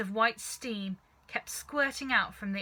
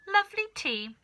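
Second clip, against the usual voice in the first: much higher, sing-song; gleeful goading; 12 semitones higher, 4 dB louder than usual. Acted. Father goading grandma to drink, mock sweet and high. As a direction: tease her with mock sweetness.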